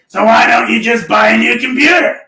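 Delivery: lightly voiced blunt mentor; a hint of the mentor's blustery voice; mentor impression. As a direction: imitate a mentor asking the obvious. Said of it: "This is how he sounds".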